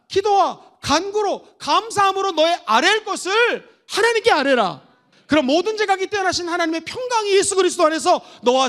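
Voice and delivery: loud, rising sermon climax; fervent pulpit proclamation, building loud; full-force preaching. Acted. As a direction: preach it out to the whole church.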